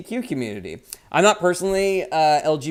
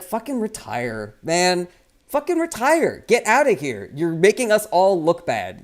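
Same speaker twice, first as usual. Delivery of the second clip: exasperated rant; 3 semitones higher than usual. Retold or imitated. Streamer ranting at Nancy Pelosi, a building angry tirade. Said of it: "with her that I'm just like".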